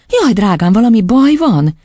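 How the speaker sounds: mildly anxious, motherly inquiry; concerned teacher. A narrator's reading. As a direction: ask with tender alarm. Teacher worried for the girl.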